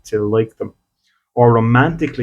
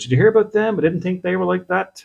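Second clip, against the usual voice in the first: gossiping acquaintance; 8 semitones higher than usual. Retold or imitated. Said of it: "someone goes".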